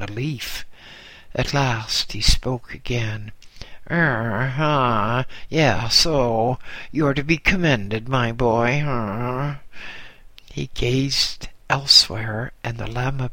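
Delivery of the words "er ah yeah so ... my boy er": lightly voiced old abbot, appraising; a hint of a slow, measuring old abbot; Lord Abbot. Lord Abbot sizing up the boy, lightly voiced.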